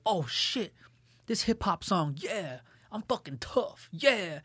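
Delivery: drawn-out, hushed hype of a wannabe tough guy; mock a listener feeling tough off hip-hop. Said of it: "this false sense of that you're tough".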